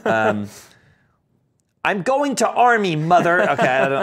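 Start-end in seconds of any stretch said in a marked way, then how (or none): 1.8-3.5 lightly voiced Buster, a touch higher; half-hearted Buster impression. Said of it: "read like Buster".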